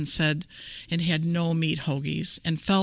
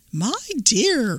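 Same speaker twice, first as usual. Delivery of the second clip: sugary fake granny call, higher; wolf posing as granny; 5 semitones higher than usual. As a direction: call sweetly like a disguised wolf. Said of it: "and called out".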